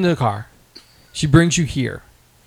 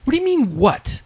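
retold rant pitched much higher; mock outraged yelling; 10 semitones higher, 3 dB louder than usual. Retelling angry call to friend, mock outraged high voice. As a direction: replay the furious phone rant at him, high. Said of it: "And I'm like".

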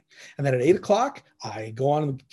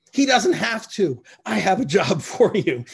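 playful teasing reply; 4 semitones higher, 5 dB louder than usual. Retold or imitated. Recruiter Kim teasing Tim on the phone with a job offer, playful and laughing. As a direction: tease him with the good news, a laugh slipping in. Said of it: "kind of laughing at the way that she said it".

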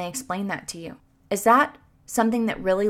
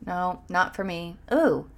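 discouraged inner voice; 4 semitones lower, 5 dB quieter than usual. Retold or imitated. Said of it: "you'll think".

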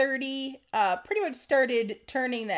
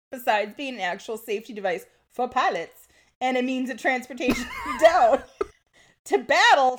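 laughing while talking; 4 dB louder than usual. Real, not acted. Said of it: "trying so hard to keep my mouth shut".

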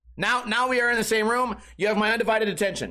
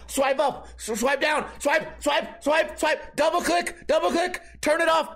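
high, frantic swiping panic; rushed, shouting in a panic; 7 semitones higher, slower than usual. Retold or imitated.

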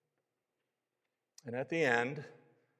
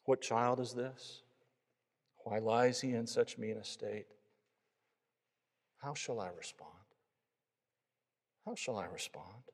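measured questions, growing hushed at the end; recited verse. A narrator's reading.

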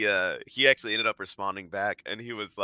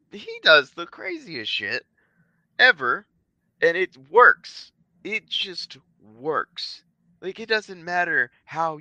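rising higher and louder with excitement, slowing on the last words; worked up, stretching out the praise; excited; 10 semitones higher, 4 dB louder, slower than usual. Real, not acted. Hyped about a friend's wins.

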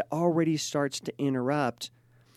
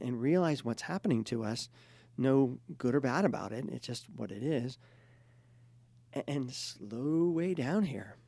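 gentle calming. Retold or imitated. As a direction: soothe the couple like a calm therapist. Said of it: "we really had to take a break and go".

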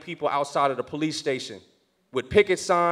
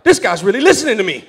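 laughing amazement; 4 semitones higher, 7 dB louder than usual. Retold or imitated. Amazed chief follows his advice.

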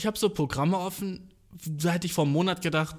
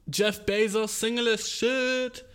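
hyped bro voice; 7 semitones higher, slower than usual. Pretend. Catchphrase again.

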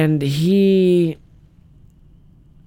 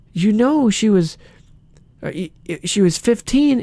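calm mock interrogator, pitched up; Chris Hansen; 6 semitones higher than usual. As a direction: break it to the suspect in a measured, higher voice. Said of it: "he talks all calm".

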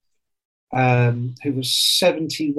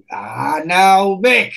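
put-on lilting Irish accent, cut short; an old Irish accountant; 4 semitones higher, 5 dB louder, slower than usual. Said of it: "I can't do the Irish accent".

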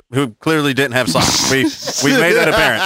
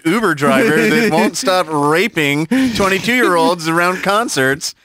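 lightly voiced mock news anchor; news reporter; 3 semitones higher than usual. Friend mocks the driver as a TV news anchor, mock reporter voice. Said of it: "Channel Two Action News".

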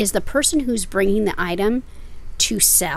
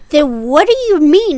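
loud, higher exasperated question; frustrated; 8 semitones higher, 10 dB louder than usual. Retold or imitated. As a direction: throw up your hands and demand it. Frank demands an answer.

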